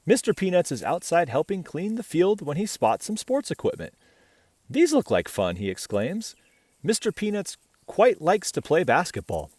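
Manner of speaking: bright, even read-aloud voice; story narration. A narrator's reading. Reading a picture book to children, bright storytelling. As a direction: read the tale gently to little listeners.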